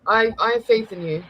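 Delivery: put-on low, sophisticated English accent; put-on English accent, pitched low. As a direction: reassure in a refined English accent. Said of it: "You sound so sophisticated".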